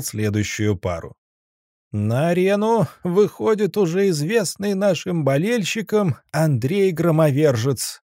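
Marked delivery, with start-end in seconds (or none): 1.9-8.0 booming ring announcer. Acted. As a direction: call it out to the whole arena. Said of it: "надрывался Заяц в микрофон".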